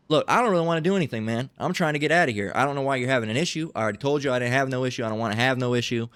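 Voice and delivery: fast, insistent acted refusal to fight; hurried de-escalation. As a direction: rattle off excuses to get out of there. Plays the one avoiding a fight.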